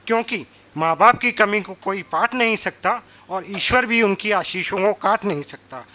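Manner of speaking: rhythmic closing verse, declaimed to an audience; measured stage recital; poem recitation. Acted. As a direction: recite the couplets with repeated lines for weight.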